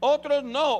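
loud, high otros no; loud emphatic otros no. Acted. Preacher contrasting believers, calling out loudly. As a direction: punch it out to the crowd.

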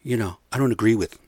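stammering mock retreat; Ted Cruz backpedaling. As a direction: imitate a politician squirming out of it, trailing into hesitant denials. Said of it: "Now he's all backpedaling".

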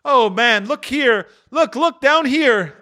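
high, loud anguished cry; exclaiming. Acted. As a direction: plead loudly to look down. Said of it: "exclaimed the ghost".

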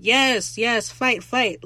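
loud, high mock cheering; imitated hype chant; hyping up a fight. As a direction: egg them on like a rowdy spectator. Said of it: "hyping them up like".

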